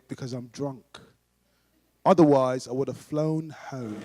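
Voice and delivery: put-on low, deliberate drunk deadpan; slow down toward the end, lightly drunk; lightly voiced low drunk; drunk man. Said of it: "very drunk as well".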